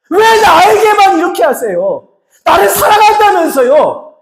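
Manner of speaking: high, loud shouted cry at God; anguished shout. Retold or imitated. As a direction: hurl the grief upward at full force.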